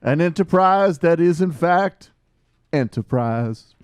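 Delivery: lightly mock civil-rights oratory; switching impression voices. Mock MLK speech voice.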